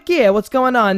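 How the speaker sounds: loud New York challenge; New Yorker accent. Shown as a demonstration. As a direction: confront them in a played-up New York accent. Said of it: "just say it like a New Yorker".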